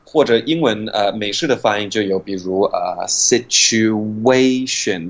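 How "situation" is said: "situation" with a glide w between u and a, slowly; slow demo of the w glide; linking w. Shown as a demonstration. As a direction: stretch "situation" so a w slips in. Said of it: "有一个w的音出现了".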